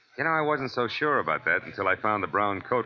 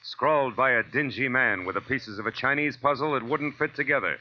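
dramatic teaser; 3 semitones higher than usual. Acted. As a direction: tease next week's mystery with weight. Teaser for next week.

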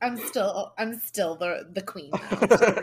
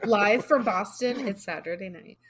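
TV announcer. Pretend. SNL opening parody.

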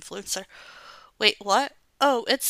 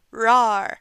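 monster roar; 6 dB louder than usual. Acted.

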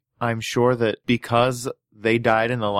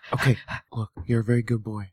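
stage whisper; 4 semitones lower, 6 dB quieter than usual. Pretend. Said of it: "it has to be in a stage whisper".

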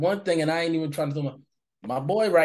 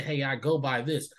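calm, low-key correction; no attitude; 3 semitones lower than usual. Shown as a demonstration. Modelling a correction for strangers, no attitude. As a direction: say it lower, with no edge. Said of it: "don't get an attitude, just say".

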